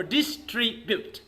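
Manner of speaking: "distribute" in parts, DIS, TRI, BUTE; broken into parts. Shown as a demonstration. Teacher explaining pronunciation in parts, "distribute" split as dis-tri-bute. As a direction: separate the syllables of "distribute". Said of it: "halfly you have to pronounce".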